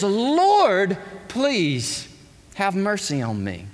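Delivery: humble desperate plea; pleading for mercy. Acted. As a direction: plead like a desperate man at his master's feet. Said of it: "but it's".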